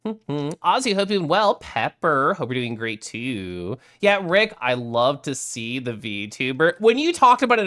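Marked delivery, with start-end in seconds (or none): none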